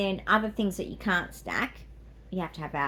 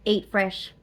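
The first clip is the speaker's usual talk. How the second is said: punchy advert tagline, louder; ad slogan; 6 dB louder than usual. Shown as a demonstration. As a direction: sell it like a commercial. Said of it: "Sounds like a Subway advert".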